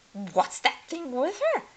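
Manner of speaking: a hint of a mocking witch sister; asking. A narrator's reading. Hildy asks about the vacuum, lightly voiced. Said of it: "asked Hildy".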